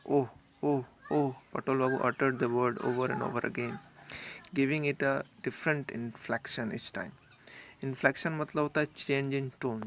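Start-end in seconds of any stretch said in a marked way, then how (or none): 0.1-1.4 "ओह" repeated, each with a different tone; vary the tune on each "ओह"; oh said several ways. Shown as a demonstration. Teacher demonstrating "ओह" in changing tones. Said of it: "बार बार उस शब्द को प्रोनाउंसिएट करते हैं". 1.5-7.1 measured storybook read-aloud; slow story reading. Acted. Teacher reading the story aloud to the class.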